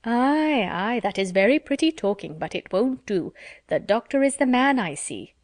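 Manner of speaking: Mrs Jennings won't be fooled; Mrs Jennings teasing. Acted. Mrs Jennings teasing Miss Steele about the doctor, hearty.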